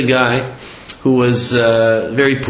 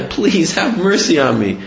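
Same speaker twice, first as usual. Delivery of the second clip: higher-pitched imitated plea; mock begging; 4 semitones higher than usual. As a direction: plead for mercy, lightly acted. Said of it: "he's begging the guy".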